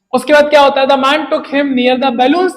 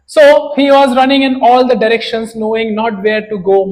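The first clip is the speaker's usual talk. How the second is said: slow, deliberate storybook reading; story narration; 4 dB louder, much slower than usual. A narrator's reading. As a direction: read it out slowly, like a tale for the class. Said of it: "slow dramatic story reading". (धीमी कहानी वाचन शैली)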